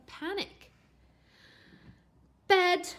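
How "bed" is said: loud high command; shout. A narrator's reading. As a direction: order him to bed. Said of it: "shouted Mum".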